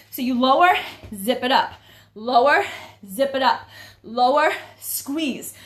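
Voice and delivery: breathless from squats; panting while cueing; out of breath. Real, not acted. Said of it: "can you guys tell that I'm already out of breath?".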